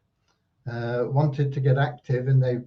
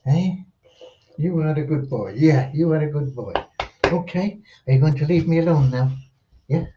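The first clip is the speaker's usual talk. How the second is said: talking to a dog. Real, not acted. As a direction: praise the dog in a cooing voice. Praising the dog.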